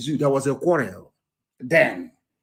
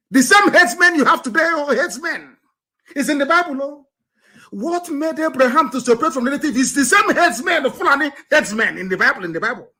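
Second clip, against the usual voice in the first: high-pitched, worked-up exclamation; exclaiming; 10 semitones higher than usual. Real, not acted. Preacher showing Nigerians the herdsmen in scripture, exclaiming. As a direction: preach it high, driving the discovery home.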